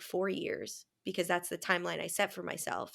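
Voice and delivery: normal talking voice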